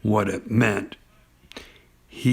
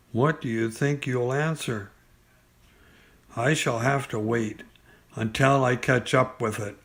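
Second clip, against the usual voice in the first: softer, hushed hunter's voice; quiet Pooh; 6 dB quieter than usual. Acted. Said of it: "said Winnie the Pooh".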